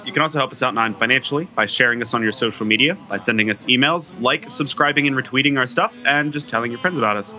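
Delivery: talking through hiccups; fighting back hiccups while talking. Real, not acted. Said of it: "trying to get rid of my hiccups".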